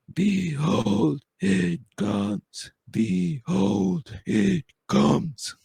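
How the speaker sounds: high, distant chanting chorus; eerie chorus. Acted. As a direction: intone it like a faraway choir. Distant chorus singing in the dungeon.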